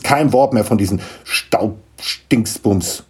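firm interruption, the silly name drawn out; cutting in sternly. Acted. Mother has heard enough gnome talk, stern. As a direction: cut the child off firmly. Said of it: "unterbrach ihn seine Mutter".

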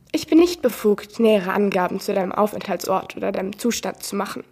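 lightly voiced AI woman with stilted stress; a hint of a computer lady, odd emphasis; mild synthetic female assistant voice; unnatural woman's voice. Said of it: "Ihre Betonung ist genauso unnatürlich".

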